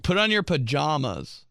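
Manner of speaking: affected "pajamas" with an ah in the middle; bougie pronunciation. Retold or imitated. Mocking someone being bougie about bedwear, affected "pajamas". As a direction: say "pajamas" with a pretentious broad ah. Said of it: "tries to be, like, bougie about it".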